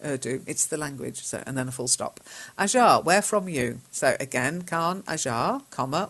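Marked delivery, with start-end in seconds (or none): 2.6-3.8 reading out the mistake. Shown as a demonstration. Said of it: "Where are you from?".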